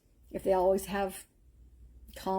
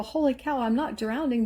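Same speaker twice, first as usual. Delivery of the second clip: amazed exclamation; 5 semitones higher than usual. Retold or imitated. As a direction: blurt it out, suddenly amazed. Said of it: "all of a sudden I go".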